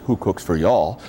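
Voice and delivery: the Southern version of the owl's hoot; Southern owl call. Retold or imitated. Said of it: "Or in the South, it says".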